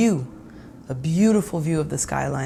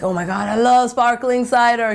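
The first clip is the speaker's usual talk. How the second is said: excited; 5 semitones higher, 4 dB louder than usual. Retold or imitated. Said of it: "He gets super excited".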